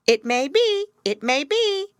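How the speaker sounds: high, loud grave bird voice; grave raven. Acted. Raven gravely answers Gerda, high and loud. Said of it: "nodded very gravely and said".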